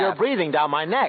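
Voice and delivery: breaking into laughter mid-line; giggling through the words; laughing. Real, not acted. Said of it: "What are you laughing at?".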